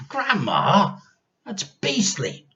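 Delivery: put-on a boy shrinking from the thought; horrified boy. A narrator's reading.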